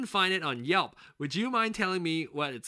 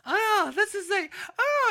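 distracted coworker; slower than usual. Coworker voiced in a story.

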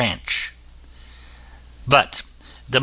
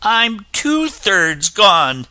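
high, slow little voice; slow and small, fading away; gingerbread man voice; 7 semitones higher, 4 dB louder, much slower than usual. A narrator's reading. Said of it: "said the gingerbread man".

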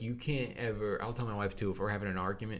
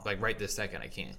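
blocked nose. Real, not acted. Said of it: "I cannot breathe through my nose".

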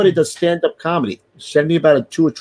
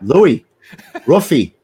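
escalating wake-up yell; 4 dB louder, slower than usual. Pretend. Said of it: "it'd be like this".

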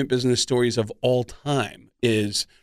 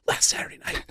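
whisper; 5 dB quieter than usual. Retold or imitated. Agent whispering answer.

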